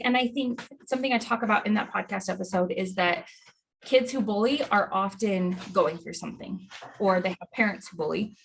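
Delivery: panting, short of breath; breathless after running stairs. Real, not acted. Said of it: "Sorry, I'm out of breath from".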